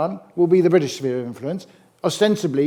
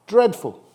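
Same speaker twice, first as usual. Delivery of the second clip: Dreadful said higher and louder, falling hard; an exasperated repeat, a touch louder; emphatic verdict; 6 semitones higher, 3 dB louder than usual. Real, not acted. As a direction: land the one word like a judgement.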